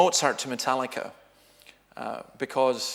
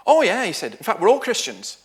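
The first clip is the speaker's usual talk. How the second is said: loud, high eager oh yeah; emphatic yes; 8 semitones higher, 8 dB louder than usual. Retold or imitated. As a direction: burst out with oh yeah. Pilgrim's emphatic reply.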